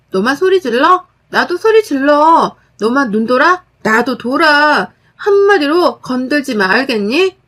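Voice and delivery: fierce warning. Acted. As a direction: throw her yelling back at her. Narrator fights back at sister-in-law.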